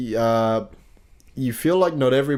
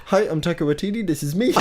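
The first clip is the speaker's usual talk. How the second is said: put-on New Zealand accent; 4 semitones higher, faster than usual. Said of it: "Jordan's best New Zealand accent".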